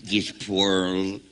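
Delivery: talking with the tongue hanging out; tongue sticking out. Acted. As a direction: say it with your tongue out. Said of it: "I thought my tongue was hanging out".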